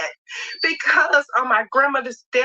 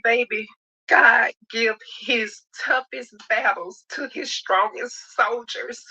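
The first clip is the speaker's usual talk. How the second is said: crying while speaking; slower than usual. Real, not acted. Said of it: "I may be crying".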